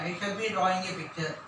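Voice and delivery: slow and deliberate, word by word; slow dictation. Shown as a demonstration. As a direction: let the class copy each word. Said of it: "கவனிங்க". (மெதுவான சொல்வது)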